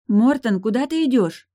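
high, loud calls down the corridor; calling out. Acted. Sister calling after her brother in the corridor, loud. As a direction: call after him, alarmed. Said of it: "слышались возгласы Лои".

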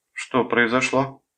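high, slow, cool question; lifeless cold tone. A narrator's reading. Girlfriend questioning her caller on the phone, cold and lifeless. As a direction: draw it out coolly in a high voice. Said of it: "сказала она безжизненным, холодным тоном".

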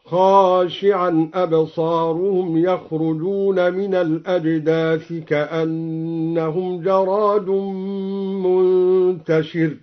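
خاشعا with a long a after the kha; slow chanted recitation of خاشعا. Shown as a demonstration. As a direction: recite خاشعا with a clear alif, slowly. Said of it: "هكذا".

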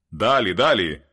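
loud call from outside, urging on; a stranger's loud cry of далі; shout. A narrator's reading. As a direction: shout it out from a distance. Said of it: "вигукнув хтось".

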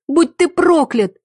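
высоко и громко, с ненавистью; выплюнь ненависть; яростный крик. A narrator's reading. Героиня проклинает похитителя. (яростный крик героини Тиме)

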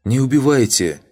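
high, loud desperate scream; terrified scream. A narrator's reading. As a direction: shriek for mercy, hammed-up fear. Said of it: "закричал Ригарди". (громкий испуганный крик, высоко)

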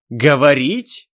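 first burst of outrage; indignant. Acted. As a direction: elf outraged at the word. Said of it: "возмутился Ненависть".

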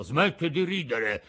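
mildly offended scolding. Acted. Geppetto scolding the laughing mouth, mildly offended. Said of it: "disse Geppetto impermalito".

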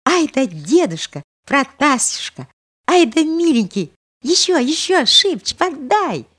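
put-on high, bright girlish cries of glee; delighted girl on a swing. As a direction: squeal with joy as the swing flies. (восторженный девичий голос)

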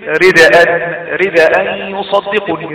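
slow رداء with a thin, light R. Shown as a demonstration. Teacher showing ر with kasra in رداء, light R. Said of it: "الراء مكسورة ترقق مطلقا".

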